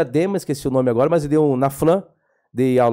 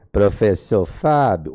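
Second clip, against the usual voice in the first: imitating his pastor; 5 semitones lower, much slower than usual. Imitating his pastor calling the professor, lower and slow. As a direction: lower and slow, name drawn out. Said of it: "vou imitar a voz dele".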